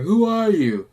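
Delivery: a gunman yelling at the intruder; retold yell. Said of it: "he just keeps yelling".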